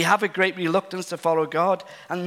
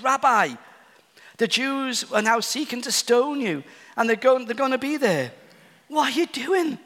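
higher, anxious pleading voice; worried disciples; 6 semitones higher than usual. Retold or imitated. Disciples begging Jesus not to return, rising alarm. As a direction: climb in alarm toward the question. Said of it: "The disciples are getting a bit worried here".

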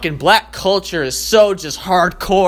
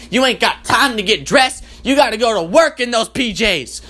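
sassy black woman alarm; 5 semitones higher than usual. Pretend. Black woman alarm clock yelling the sleeper out of bed. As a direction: chew him out, no mercy. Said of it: "a black girl's voice comes on".

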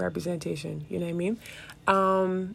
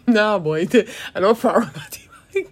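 laughing; 2 semitones higher, 5 dB louder than usual. Real, not acted. Laughing about the tea bag.

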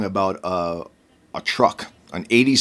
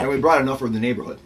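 talking through a cookie; words round a mouthful; mouth full of peanut butter; much faster than usual. Real, not acted. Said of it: "now that you've got a mouthful".

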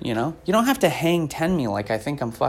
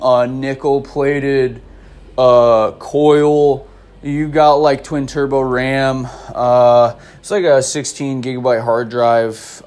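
slow, drawn-out gearhead showing off; mock vape-nerd voice with long, droning "uh"s; know-it-all vaper; 3 dB louder than usual. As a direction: imitate a smug tech bore reciting specs. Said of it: "vapors who know too much about it".

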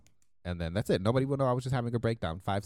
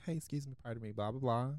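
soft, higher polite request; unaggressive approach; 4 semitones higher, 4 dB quieter than usual. Retold or imitated. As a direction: approach gently, excusing yourself. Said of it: "I didn't come aggressively".

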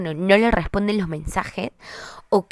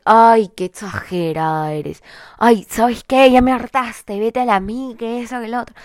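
mock toxic partner; 5 dB louder than usual. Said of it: "la famosa frase del".

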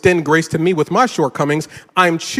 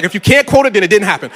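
smug; 4 dB louder, faster than usual. Retold or imitated. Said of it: "I'm like".

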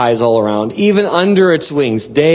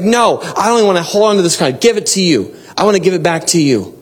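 higher-pitched, urgent surrender; crying out in worship; 3 semitones higher than usual. Acted. Elders giving their crowns back to God, crying out. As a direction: plead to hand it all over, pitched up. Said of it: "They're crying out".

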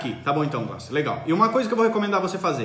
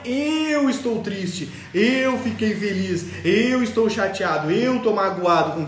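mock emotional parent; much slower than usual. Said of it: "Mas não é".

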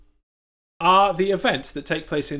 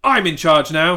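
bossy rooster; 7 dB louder than usual. Acted. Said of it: "he said".

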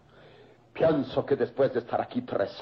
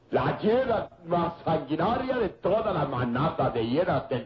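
put-on laughing coarsely through a drunken toast; boisterous, mocking drunken cheer; brutal drunken laughter. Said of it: "Sus risas groseras y brutales".

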